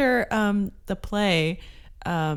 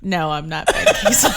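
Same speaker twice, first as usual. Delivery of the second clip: laughing through quote; 7 dB louder than usual. Retold or imitated. Guy denies being Ben Kingsley.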